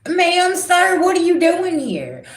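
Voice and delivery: high, loud and baffled; indignant high question. Retold or imitated. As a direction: demand to know who this is. Kids confronting a stranger.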